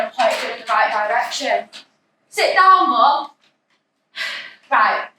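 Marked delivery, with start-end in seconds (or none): 2.3-3.3 firm command. Acted. Telling mother to sit.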